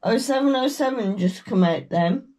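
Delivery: normal talking voice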